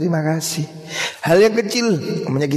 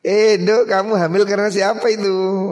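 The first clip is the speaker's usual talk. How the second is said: stern questioning; 5 semitones higher, 4 dB louder than usual. Acted. Musa questions the pregnant woman.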